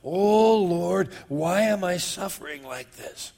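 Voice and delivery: mock self-pitying moan to the Lord; a hint of a whiny complaint, loudest on "Oh"; whining. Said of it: "whine and say things like".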